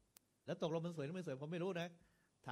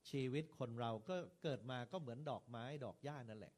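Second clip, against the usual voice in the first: gentle funeral sermon; 2 semitones lower than usual. Shown as a demonstration. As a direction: preach calmly with pauses and rhythm. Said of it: "เราก็บอก".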